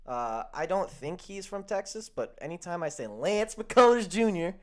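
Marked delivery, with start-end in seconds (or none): 3.1-4.6 high, loud, showy name announcement; race announcer name call. Acted. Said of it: "I have to say it like that".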